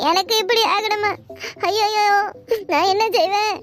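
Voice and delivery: theatrical cry of despair; staged lament, what will I do; fake wailing. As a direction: moan it for sympathy. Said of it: "ஏன்டி இப்படி அழுவுற".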